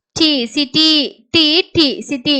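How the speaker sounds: "டி" given alone, then joined into "சிட்டி"; teacher sounding out "டி" before the whole "சிட்டி"; sounded-out blending. Shown as a demonstration. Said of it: "அப்படின்னு படிக்கணும்". ("டி" தனியாக, பிறகு "சிட்டி" என சேர்த்து)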